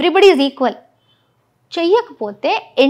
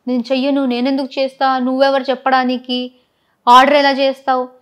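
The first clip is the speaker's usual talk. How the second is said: retold argument; 3 dB louder than usual. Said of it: "అని గొడవ పెట్టాడు".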